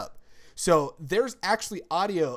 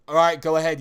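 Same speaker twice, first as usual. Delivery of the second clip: mock permission; 11 dB louder than usual. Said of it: "I'm like".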